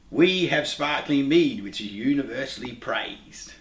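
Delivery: put-on slow, measured reading of an old verse; solemn reading aloud. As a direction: read it like an ancient saying, slowly. Reads old quote from book.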